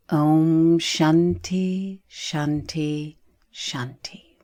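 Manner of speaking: spoken blessing fading to a near-whisper; spoken mantra. Real, not acted.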